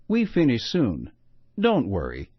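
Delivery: a mother trying her best English, a hint of accent; careful best English. Mother greets the grumpy neighbor in careful, lightly accented English. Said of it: "said Mommy".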